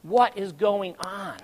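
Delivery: slow, emphatic mild plea; crying out. Retold or imitated. Man asking the Lord for answers, pleading. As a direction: draw out each word in appeal. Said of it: "I'm crying out to the Lord".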